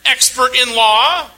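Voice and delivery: preacher voicing Jesus pressing the lawyer; Jesus challenging. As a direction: put the expert on the spot, slowly and pointedly. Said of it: "In other words".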